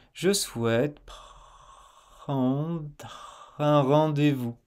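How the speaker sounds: Je souhaite prendre drawn out very slowly and gently; very soft. Shown as a demonstration. Teacher showing a very soft R for students to copy. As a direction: say it very softly and slowly, very relaxed. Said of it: "très doux".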